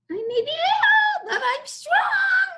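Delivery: a tiny goblin bragging at the top of his voice; boasting goblin shout. Acted. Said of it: "said the goblin".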